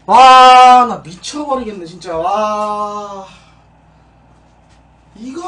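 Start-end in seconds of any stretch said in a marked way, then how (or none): none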